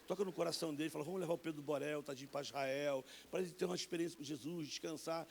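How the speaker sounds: a hint of a child praying to God; retold prayer. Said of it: "comecei a interceder como missionário".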